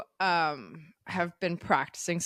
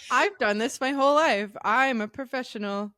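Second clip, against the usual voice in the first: higher, louder playful boast; mock cocky pro; 8 semitones higher, 4 dB louder than usual. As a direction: tease her like a smug expert. Teasing her mock bragging.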